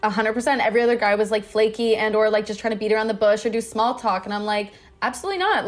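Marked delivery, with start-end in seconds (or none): 5.0-5.7 high, emphatic no way; emphatic refusal. Retold or imitated. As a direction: shoot it down with a high squeal.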